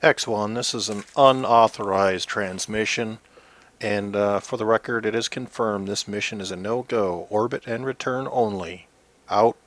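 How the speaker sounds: loud commanding radio voice; firm orders over the radio; stern mission control. Pretend. Mission control answers the astronaut.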